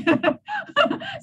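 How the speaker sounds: high giggling burst; real high-pitched laugh; laughter. Real, not acted. Joking, breaks into laughter.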